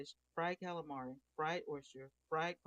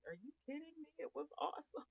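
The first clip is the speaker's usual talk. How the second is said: excited; 12 semitones higher, 4 dB quieter than usual. Retold or imitated. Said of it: "I'm like".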